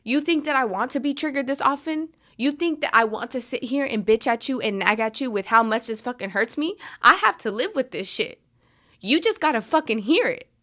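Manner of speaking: heated, rising reenactment of the fight; retold angry outburst. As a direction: throw the complaint back at him, getting hotter. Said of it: "I would tell him, like".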